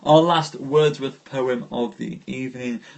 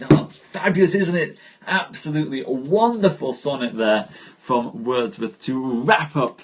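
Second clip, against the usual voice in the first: gushing praise; 3 dB louder than usual. Real, not acted. Praising Wordsworth's sonnet to the audience, delighted. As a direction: gush over the poem. Enthusing after the poem.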